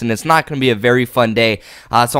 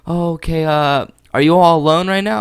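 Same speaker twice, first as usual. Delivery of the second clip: mock woman's voice; 4 semitones higher than usual. Quoting the woman on phone.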